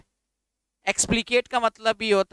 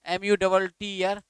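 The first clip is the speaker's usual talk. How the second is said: slow spelling dictation; slower than usual. Shown as a demonstration. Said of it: "आप word लिखिए दूसरा मटर".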